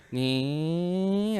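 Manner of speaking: drawn-out "neee" of a machine; imitated ride noise. Storyteller imitates the ride flipping over, drawn-out noise. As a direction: mimic the ride's long swinging whine. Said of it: "so it goes".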